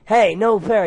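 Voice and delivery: high, loud protest; yelling computer. Acted. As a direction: yell it like an angry screen. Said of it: "yelled the computer screen".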